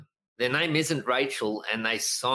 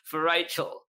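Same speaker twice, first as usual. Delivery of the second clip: higher-pitched rallying call; retold shout-out to a crowd, lightly raised; 8 semitones higher than usual. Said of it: "basically just called out the cheer squad".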